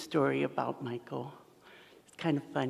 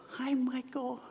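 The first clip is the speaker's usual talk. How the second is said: breathy high whisper of a greeting; 9 semitones higher, 4 dB quieter, slower than usual. Retold or imitated. At the office, greeting Michael in a whisper. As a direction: whisper his name like a shy hello.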